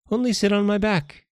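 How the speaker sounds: high-pitched, coaxing jellyfish voice; eager jellyfish. Acted. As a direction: coax the monkey in a high little creature voice.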